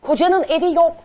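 "Kocanın evi yok" shouted out loud, stress on "yok"; angry shout. Real, not acted. Host shouting the guest down on live TV, loud and angry. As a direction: hammer the word "yok" at full volume.

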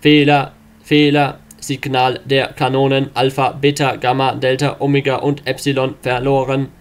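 mechanical error announcement; computer voice. Acted.

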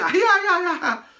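high, drawn-out delighted cry; doting grandparent. Retold or imitated. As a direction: croon it slowly as if the slap were cute. Grandparent delighted at being slapped.

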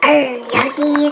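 pirate voice. Acted. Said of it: "we gotta talk like a pirate".

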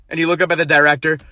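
normal talking voice

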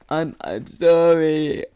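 slow, halting imitation of a crying kid; mock tearful apology. Kid apologising before he starts bawling, mock tearful. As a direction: stammer out a drawn-out, whimpering apology. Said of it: "just starts freaking bawling and crying".

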